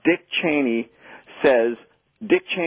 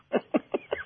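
sardonic laugh; 8 dB quieter than usual. Real, not acted. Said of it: "you know, sardonic laughter".

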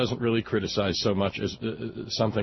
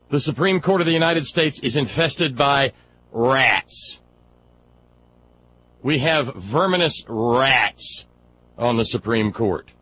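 loud, higher, slow mock announcement; mock proclamation; 4 semitones higher, 5 dB louder than usual. Real, not acted. Host declaring the court infested by rats, loud mock proclamation. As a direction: proclaim it like a town crier, half joking.

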